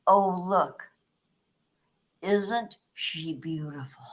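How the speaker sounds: breathy awed whisper, slow; hushed whisper. Retold or imitated. Retelling her mother's awed whisper. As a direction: whisper it in wonder.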